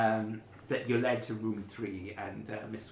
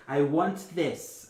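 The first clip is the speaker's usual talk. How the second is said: demanding customer; 6 semitones higher, 8 dB louder, much slower than usual. Retold or imitated.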